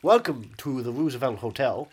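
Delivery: put-on slow, deliberate American accent; actor's measured American accent. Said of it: "I could do my American accent".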